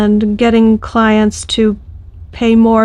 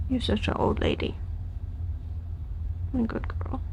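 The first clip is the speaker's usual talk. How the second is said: soft murmur; 17 dB quieter than usual. Real, not acted. Soothing the dog softly.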